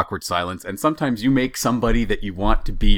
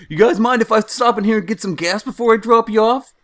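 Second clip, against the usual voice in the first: driver's voice; 14 semitones higher, 5 dB louder than usual. Retold or imitated. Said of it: "and he's like".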